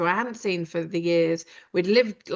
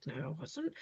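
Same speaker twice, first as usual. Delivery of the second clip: defensive denial; 3 semitones lower, 16 dB quieter than usual. Retold or imitated. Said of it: "I'm like".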